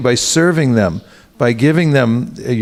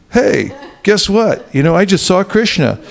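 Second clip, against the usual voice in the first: bragging; 6 semitones higher than usual. Retold or imitated. Devotee posts online in a higher, mock-excited boast. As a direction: brag in a higher voice about the vision.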